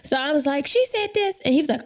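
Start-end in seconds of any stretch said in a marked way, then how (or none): 0.7-1.4 tearful tattling. Retold or imitated. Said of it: "I started crying".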